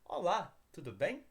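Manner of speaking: careful step-by-step "Olá, tudo bem?" for learners to repeat. Shown as a demonstration. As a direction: give "Olá, tudo bem?" slowly and clearly, one word at a time. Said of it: "I'm gonna repeat it here".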